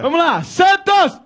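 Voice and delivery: long, drawn-out team shout; gritando. Real, not acted. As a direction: belt it out to the crowd, very slowly. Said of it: "gritando, desgraçado!". (grito enfático e esticado)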